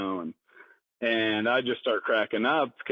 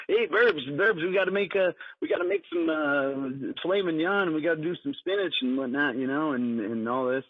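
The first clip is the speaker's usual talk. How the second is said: high excited boss voice; 4 semitones higher than usual. Retold or imitated. Retold manager voiced excitedly.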